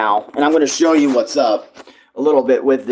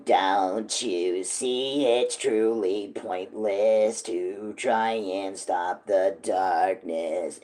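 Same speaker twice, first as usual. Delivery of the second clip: very low, very slow monster voice; creepy monster voice; 7 semitones lower, 10 dB quieter, much slower than usual. Shown as a demonstration. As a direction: growl it out low like a creature. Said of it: "creepy, sort of monster voice".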